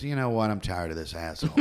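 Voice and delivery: a hint of an annoyed snake; fed-up snake. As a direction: let the snake mutter its fed-up aside. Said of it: "the snake goes".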